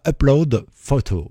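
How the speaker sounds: English words in a French accent; French-accented English, said carefully; self-mocked English accent. Real, not acted. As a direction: attempt an English accent with a French speaker's sounds. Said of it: "avec mon superbe accent anglais".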